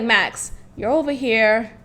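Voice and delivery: low, quiet, unbothered man; mad calm. Retold or imitated. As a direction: imitate him staying very calm, softly. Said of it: "he's mad calm".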